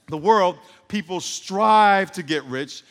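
loud, slow, drawn-out proclamation; emphatic preaching. Real, not acted. Preacher to congregation, loud and slow. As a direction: hammer the words home to the room.

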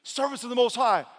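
high, loud royal summons; calling out. Acted. King hails the servants in the furnace, calling out.

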